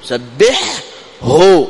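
سبحه slow with the ح clearly voiced before the ه. Shown as a demonstration. Teacher slowly models سبحه for students. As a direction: stretch سبحه so both ح and ه sound. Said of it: "إظهار الحاء عند الهاء".

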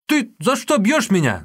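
loud, high hurt yell; boy wailing. Acted. Beaten boy crying out at the old woman, loud. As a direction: cry out as he is hit. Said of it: "завопил Юньгэ".

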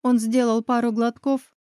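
ordinary delivery

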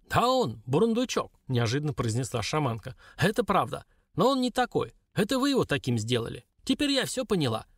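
put-on old shaman. Shaman speaks.

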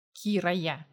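a hint of a hissing girl; hissed. A narrator's reading. Captured girl hisses her name at him, lightly voiced. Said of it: "прошипела девушка".

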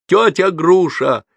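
high, drawn-out call for help; desperate yell. A narrator's reading. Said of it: "орал я благим матом". (отчаянный крик)

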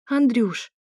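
mock whimper of his name; a light playful whine; whining. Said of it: "захныкала я".

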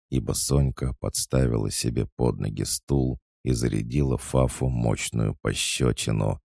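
usual speaking voice

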